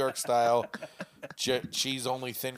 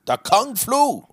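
mock shout; 12 semitones higher, 10 dB louder, slower than usual. Joke name shouted.

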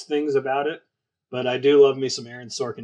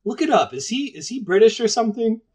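lightly imitating wife, pitched much higher; mock wife's voice; 10 semitones higher, 4 dB louder than usual. Husband imitating his wife quizzing him about an actor, mock higher voice. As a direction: quote her quizzing him, higher and insistent. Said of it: "She was like".

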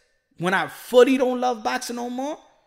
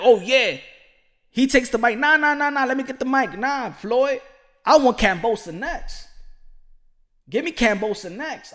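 loud, cocky take-the-mic fighter; imagined Gervonta; 4 semitones higher, 4 dB louder than usual. Pretend. Gervonta taking the mic from Floyd, loud and cocky. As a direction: grab the mic and call out opponents. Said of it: "We gonna be like".

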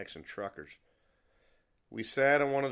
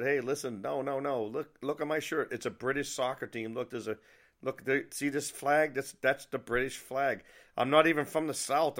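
higher-pitched, insistent explaining; urgent protest; 6 semitones higher, 5 dB louder than usual. Acted. Yankee explaining his shirt to angry diner staff, urgent protest. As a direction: plead your innocence, voice raised in pitch.

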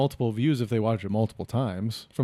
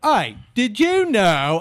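put-on higher, drawn-out British accent; broader British dialect; 6 semitones higher, much slower than usual. Comic contrasting UK dialects, broad drawn-out British accent. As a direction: stretch it into a broad mock-British greeting. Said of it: "But if someone's like".

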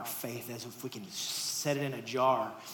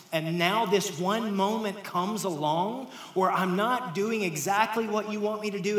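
higher and louder, building urgency; impassioned plea; 4 semitones higher, 4 dB louder than usual. Acted. Jesus confronts doubting disciples, rising passion. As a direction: press them hard, passion rising.

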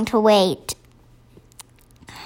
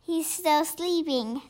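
hushed, slightly raised pitch; whispered; 4 semitones higher, 12 dB quieter than usual. A narrator's reading. BFG tells Sophie about the sleeping giant, whispered. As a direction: keep it very soft, as if not to wake him. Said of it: "the B F G whispered".

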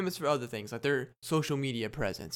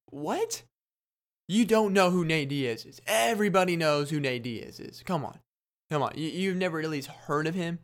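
incredulous; 4 semitones higher than usual. Retold or imitated. Fan shocked a friend doesn't know the fighter, incredulous. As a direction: act shocked they don't know him. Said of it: "I'm like".

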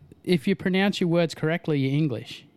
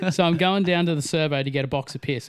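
Australian accent. Shown as a demonstration. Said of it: "chink accent".

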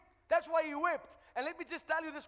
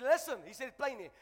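mildly angry, louder retort; angry Jesus; 4 dB louder than usual. Retold or imitated. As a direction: retell it with a touch of anger. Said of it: "Jesus became angry at him".

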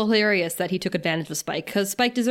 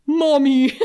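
put-on childlike voice; 4 semitones higher, 6 dB louder than usual. Adam's last word to Walsh.

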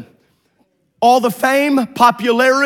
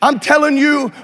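driving, insistent sermon delivery; fervent preaching; 2 semitones higher than usual. Real, not acted. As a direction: preach it urgently, leaning hard on key words. Preaches at rising force.

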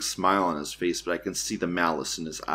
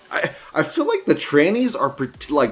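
laughing disbelief; 6 semitones higher, 7 dB louder than usual. Real, not acted.

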